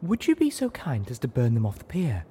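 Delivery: high, sweet, gentle coo; lightly voiced Velvet cooing. A narrator's reading. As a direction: coax the phoenix kindly. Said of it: "Velvet Remedy cooed".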